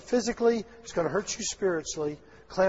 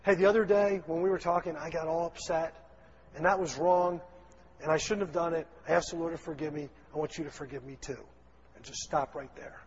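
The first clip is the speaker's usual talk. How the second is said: sincere apology. Pretend. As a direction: apologize gently and stop. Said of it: "if you just bring up your side".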